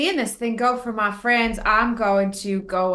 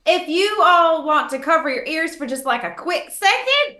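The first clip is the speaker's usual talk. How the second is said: lightly voiced warning; 9 semitones higher, 4 dB louder than usual. Character warns party.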